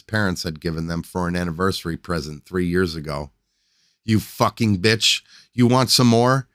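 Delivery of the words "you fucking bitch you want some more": angry yell. Acted. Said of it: "he yelled down at her".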